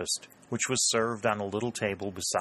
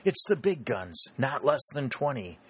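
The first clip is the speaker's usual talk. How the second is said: high, eager exclaiming; narrated rush of eagerness; excited cry; 6 semitones higher than usual. A narrator's reading. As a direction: exclaim with battle fever. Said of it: "he cried".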